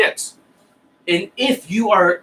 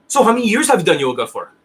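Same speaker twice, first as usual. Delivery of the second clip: quick, pushy question-firing, a bit louder; interrogating student; 2 semitones higher, 3 dB louder, faster than usual. Retold or imitated. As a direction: rattle it off like an interrogation. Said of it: "It's like, holy shit, interrogation".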